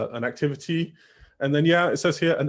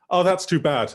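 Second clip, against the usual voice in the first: slightly raised, commiserating reply; sympathetic; 4 semitones higher than usual. Shown as a demonstration. Replying to a partner's breakup news in practice, sympathetic. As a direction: offer mild, acted sympathy.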